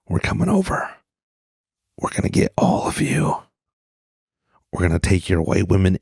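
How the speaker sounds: playful mock invasion warning; mock menacing invader. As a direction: tease like a cartoon villain. Mock Latino invasion threat.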